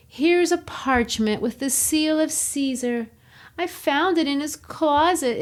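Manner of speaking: a hint of a distressed Southern Belle. Antony to the Roman crowd, lightly voiced Southern Belle. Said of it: "a Southern Belle in distress voice".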